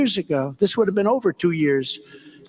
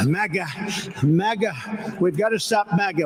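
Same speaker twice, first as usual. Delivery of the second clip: mocking Biden. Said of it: "What does maga mean, Joe?".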